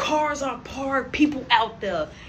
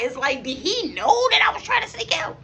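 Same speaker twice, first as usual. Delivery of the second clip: higher whispered question; 12 semitones higher than usual. Real, not acted. Sneaking out and wondering in a high whisper. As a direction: whisper the worry aloud.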